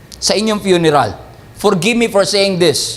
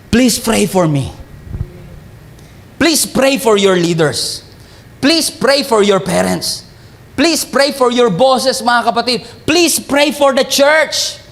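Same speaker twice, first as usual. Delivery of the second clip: earnest plea; slower than usual. Real, not acted. Pleading appeal to congregation.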